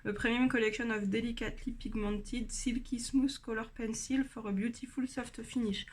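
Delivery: reading English aloud with a French accent, a bit soft; a French speaker proudly putting on her English accent; careful French-accented English read from the box. Shown as a demonstration. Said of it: "Vous avez vu mon bel accent anglais".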